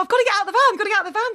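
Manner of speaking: high, urgent repeated thought; loud mock panic; retold panic. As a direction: act out frantic need to escape. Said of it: "And I thought".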